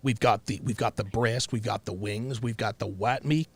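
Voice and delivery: polite Southern date, lightly put on; a hint of folksy Southern courtship; white guy from Mississippi. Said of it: "let's say I was a white guy".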